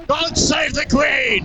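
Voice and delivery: slow, high British proclamation; drawn-out mock British patriot; mock British accent.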